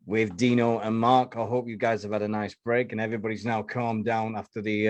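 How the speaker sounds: ordinary delivery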